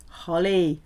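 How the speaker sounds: usual speaking voice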